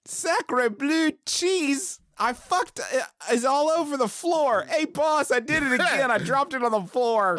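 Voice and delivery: high, hammy clumsy French cook; french chef. Pretend. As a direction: squeal like a bumbling French chef.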